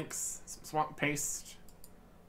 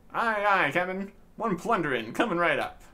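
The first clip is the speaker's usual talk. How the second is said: eager pirate lad; 4 semitones higher, 5 dB louder than usual. Acted. Lad answers captain.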